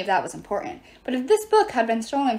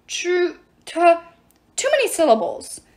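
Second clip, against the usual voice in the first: tearful struggle; 7 semitones higher, 4 dB louder than usual. Acted. Dwarves near tears, failing to pronounce.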